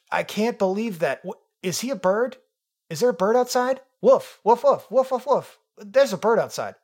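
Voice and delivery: high, loud yapping dog voice; excited dog. Acted. Reading the dogs' review as a dog barking at a bird outside. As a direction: bark it out like a dog spotting a bird. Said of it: "getting the dialect wrong".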